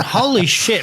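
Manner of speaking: surprised. Retold or imitated. Seeing the rod bend.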